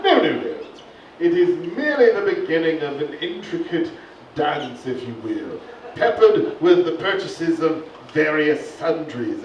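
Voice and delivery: posh wildlife narrator; nature documentary. Acted. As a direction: narrate like a stuffy presenter. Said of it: "Sir Reginald Hollow".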